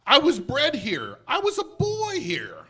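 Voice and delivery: loud, rising cry of recognition; an old man moved to tears; overcome old Scrooge. A narrator's reading. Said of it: "Scrooge overwhelmed by memories".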